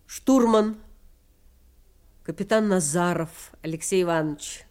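measured, solemn voice-over narration; documentary narration. A narrator's reading. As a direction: read it like a wartime chronicle. (торжественное закадровое повествование)

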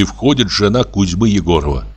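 ordinary delivery

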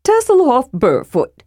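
a cheerful kender introducing himself; lightly voiced eager introduction; eager kender greeting.

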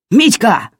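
high, loud cracking shout; the father's voice breaks as he yells; voice breaking. A narrator's reading. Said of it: "голос отца сорвался". (отец кричит на сына, голос срывается)

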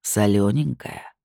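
low, slow husky tease; husky chuckle. Acted. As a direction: chuckle it huskily. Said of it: "хрипло усмехнулся Люцифер".

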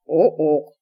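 low explanatory ape hoot; orangutan ook. Acted. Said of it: "объяснил он".

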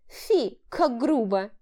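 high coquettish mock offence; flirtatious. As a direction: tease him flirtily. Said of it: "кокетничала Влада".

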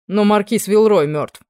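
blunt announcement. A narrator's reading. Grave news announced.

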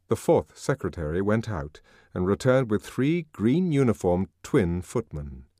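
ordinary delivery

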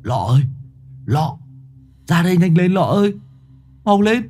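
rising, fast urgent calling. A narrator's reading. Boy urgently calling his friend to look outside. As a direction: hurry your friend over, alarmed.

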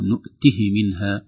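"نؤته" with the ه vowel left short before "منها"; no vowel lengthening. Shown as a demonstration. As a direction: keep the end of "نؤته" brief. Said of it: "بدون يعني، آه، إشباع الحركة".

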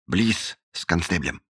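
soft hushed warning; a quiet aside to a friend about the captain; whispered. A narrator's reading. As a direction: say it under your breath. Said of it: "шепнул Холли".

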